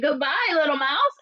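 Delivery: high, anxious storybook farewell; mildly alarmed owl taking leave; fleeing owl. Acted. Owl hastily flees.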